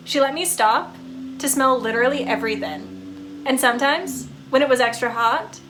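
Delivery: a pup gushing about his owner; fond talking dog. Acted.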